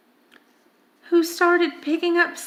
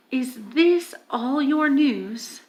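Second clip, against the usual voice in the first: slow cruel question. Acted. Witch cold slow question.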